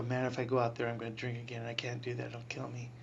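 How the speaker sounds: quiet retold inner voice. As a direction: mutter it inwardly, resigned. Retold anxious thoughts to himself.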